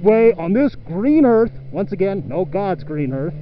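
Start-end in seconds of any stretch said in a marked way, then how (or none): 0.0-1.5 indignant mock voice. Mimicking indignant Honda lover.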